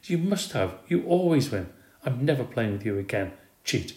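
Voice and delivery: high angry shout; girl shouting at friend over a game; shouting accusation. Acted. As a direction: hurl the accusation. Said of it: "Gail shouted".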